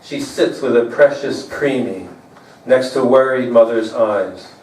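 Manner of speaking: measured, understated poem delivery; poetry reading. Acted. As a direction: read a love poem to an audience, pausing between lines. Reads own poem to audience.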